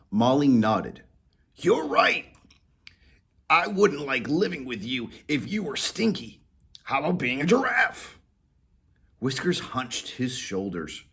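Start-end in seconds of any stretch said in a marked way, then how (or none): 1.5-8.2 higher, lightly voiced collie; dog voice agreeing. Molly agreeing with Whiskers, higher voice. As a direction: agree then suggest.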